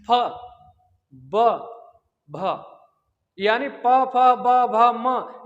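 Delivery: each lip consonant said apart, crisply; demo of lip sounds. Shown as a demonstration. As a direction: sound out प फ ब भ म one by one with the lips closing. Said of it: "जैसे आप बोलेंगे पा".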